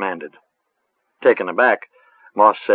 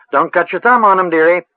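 lightly voiced rustic old witch; a hint of a cackly village crone, musing; 8 semitones higher, 6 dB louder than usual. A narrator's reading.

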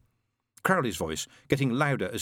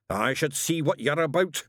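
slow, menacing snarl, pitched up; 5 semitones higher than usual. Acted. Witchfinder confronts the angel in his shop, snarling. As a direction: growl the threat, drawing it out. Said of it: "snarled Shadwell".

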